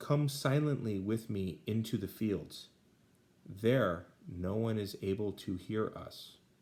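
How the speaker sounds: ordinary talk, nothing marked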